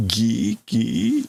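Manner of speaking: squeaky creak sliding upward; imitated creaking. Reader imitating the ship's sound, creaky. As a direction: voice a creaking hull. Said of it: "The ship is making that sound again".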